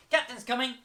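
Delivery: loud, high game call. Shown as a demonstration. Teacher calling captain's coming to the class, loud and high. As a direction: shout the warning to the crew.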